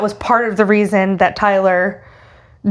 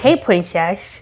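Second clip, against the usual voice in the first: put-on lisping, childlike creepy voice; incel voice; slower than usual. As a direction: lisp it with a childlike, creepy cadence. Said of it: "in an incel voice".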